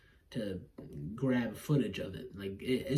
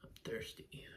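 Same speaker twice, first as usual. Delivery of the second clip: whispering; 2 semitones lower, 16 dB quieter than usual. Real, not acted. Quiet aside.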